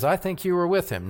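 a lightly voiced servant girl, quick and pointed; accusing servant girl. Servant girl confronting Peter, quick accusing voice.

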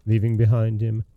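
even, measured fairy-tale reading; story narration. A narrator's reading. Podcast host reading Aladdin to listeners, measured storytelling voice. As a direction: tell the tale steadily to the listener.

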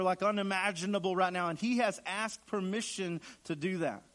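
insistent repeated phrases, rising in pitch; emphatic warning. Acted. Preacher warns of what Satan wants, building emphatically. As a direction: build the list of threats, pitch climbing.

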